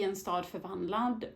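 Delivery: en stad förvandlad in fluent Swedish; Swedish title. Real, not acted. Booktuber reading the Swedish title aloud in Swedish. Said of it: "In a city transformed by".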